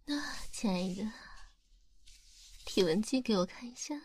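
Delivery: lightly voiced yandere, whispered; a hint of an unhinged yandere lover. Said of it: "我现在突然有点想给病娇角色配音了".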